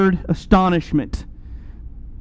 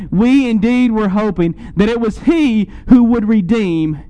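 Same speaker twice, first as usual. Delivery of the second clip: earnest, understated letdown, dropping on the last word; mild disappointment. Acted. Preacher re-voicing two disciples' lost hope, mildly disappointed. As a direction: press the hope, then let it fall. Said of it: "You hear the disappointment of these two disciples".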